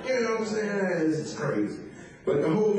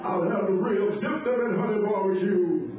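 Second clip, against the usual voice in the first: preacher voice. Retold or imitated. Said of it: "is that the I Have a Dream speech".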